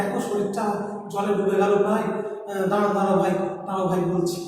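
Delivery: teacher demoing a faltering frightened voice; halting half-voice. Shown as a demonstration. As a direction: show how the drowning ant gasps its words. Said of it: "ঠিক এরকম ভাবে".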